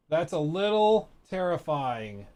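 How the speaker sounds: slow drawn-out repeat of "That's a little terrifying"; savoring echo. Shown as a demonstration. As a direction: stretch "little" and linger on "terrifying" as if tasting it.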